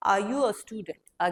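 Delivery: very slow, every word drawn out; slow model question. Shown as a demonstration. Teacher modelling the question, very slow. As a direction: stretch it so students can copy. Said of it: "What do you say?".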